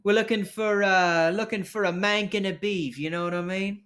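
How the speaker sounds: coaxing street rogue. Acted. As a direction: press a reluctant contact for info. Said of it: "He goes".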